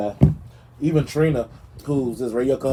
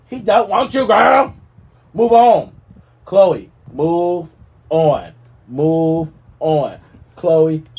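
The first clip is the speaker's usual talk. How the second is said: exasperated shout; 3 semitones higher, 5 dB louder, much slower than usual. Real, not acted. Shouting at Khloe to give up on Tristan. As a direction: yell it at her, fed up.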